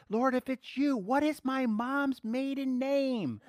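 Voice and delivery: silly Peter voice. Acted. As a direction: quiz Jesus like a security question, hammed up. Mock Peter quizzing Jesus.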